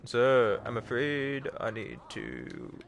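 lightly put-on Texan drawl; a hint of Texan lawman; Texan accent. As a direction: slip into a bit of a Texan accent. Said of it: "real Texan all of a sudden".

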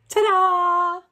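high, loud showy reveal; proud dad unveils his trick; triumphant ta-da. Acted. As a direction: present it like a magic trick.

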